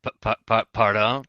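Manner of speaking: put-on French accent. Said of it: "your accent just left".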